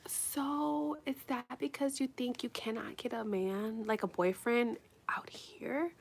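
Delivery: hushed, tentative mock doctor voice; imitated doctor. Doctor asking a patient about her jailed boyfriend, hushed. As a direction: imitate a delicate question, very softly. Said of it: "And she was like".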